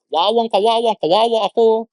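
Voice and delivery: acted woe-is-me wail, a little high; mock self-pity. Preacher imitating a self-pitying believer, mock self-pity. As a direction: whine it like someone sorry for themselves. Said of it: "nag-self-pity ka na lang".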